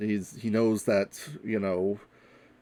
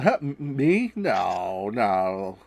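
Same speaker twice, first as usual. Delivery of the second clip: nervous laugh; much slower than usual. Acted. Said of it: "laughs nervously".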